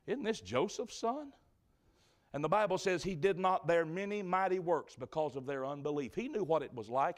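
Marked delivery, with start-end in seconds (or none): 0.0-1.3 scornful whisper. Retold or imitated. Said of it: "began to whisper and say".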